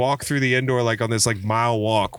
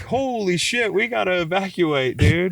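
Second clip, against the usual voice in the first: mock alarm; 6 semitones higher than usual. Mock alarm at brother's short fuse.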